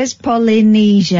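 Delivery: flat, draggy reluctant delivery; said wrong. Pretend. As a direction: mumble it out grudgingly. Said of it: "Don't say it like that".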